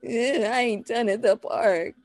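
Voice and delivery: high mock-toddler grumble; put-on pouty child; reluctant toddler. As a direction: mumble a whiny refusal like a little kid. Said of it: "you see 'em looking around like".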